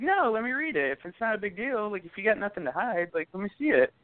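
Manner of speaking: high insistent retold demand; retelling his demand to the ex. Demanding to read her messages.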